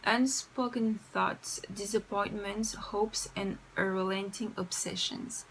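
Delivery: slow, careful reading in French-accented English; deliberate English, French accent throughout. Real, not acted. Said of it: "je déteste mon accent anglais".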